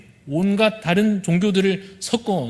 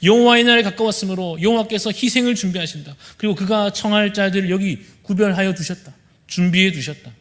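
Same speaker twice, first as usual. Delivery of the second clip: voice of God; 3 semitones higher than usual. Acted. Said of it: "하나님께서 이렇게 말씀하시는 것입니다".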